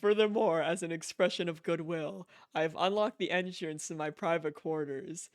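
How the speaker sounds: lightly voiced, stately letter-writer; formal letter reading. Player reading Higgs's email aloud, mildly formal voice. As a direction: read it like a mildly pompous gentleman's letter.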